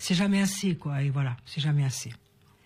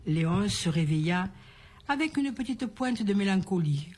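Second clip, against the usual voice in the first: measured storyteller's reading with pauses; story narration; slower than usual. A narrator's reading. Woman telling listeners a little birthday story, storytelling. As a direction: read it as a fairy tale.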